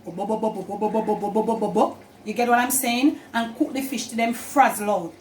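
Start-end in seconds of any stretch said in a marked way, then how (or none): 0.0-2.0 imitated bubbling. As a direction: mimic fish bouncing in a boiling pot. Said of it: "doing that boba thing".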